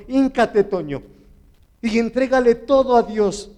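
high, loud preacher's retold order; authoritative command. Woman telling Toño to surrender to God, authoritative. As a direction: command with full authority, dropping on the name. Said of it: "con autoridad y me dijo".

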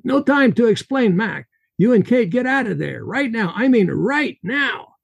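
put-on Russian accent, high and urgent, slowing on the last words. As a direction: press him hard in a Russian accent. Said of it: "His Russian accent heavy".

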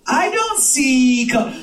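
slow mock dog voice again; deadpan dog line, slowed; dog impression. Comic repeating his dog impression, slow mock voice. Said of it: "That's my impression of most dogs".

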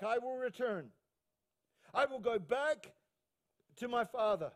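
measured, emphatic scripture delivery; impassioned preaching. Acted. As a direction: declaim the son's resolve to the congregation. Preacher voices the son's resolve.

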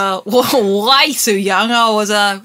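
put-on Australian accent. Guest tells Hamish about a film scare, put-on Australian accent. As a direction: answer in character as an Australian. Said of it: "I should stop this accent".

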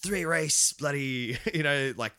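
put-on a light New Zealand accent; lightly put-on Kiwi twang; casual New Zealand accent. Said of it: "This is my best Kiwi accent".

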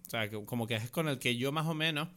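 eating while talking; words round a bite of food; mouth full. Real, not acted. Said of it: "tengo que dejar de comer".

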